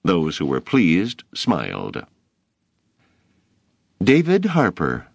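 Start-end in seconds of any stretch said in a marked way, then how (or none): 4.0-5.1 high, loud call across the classroom; teacher calling the pupil to her desk; calling a name. A narrator's reading.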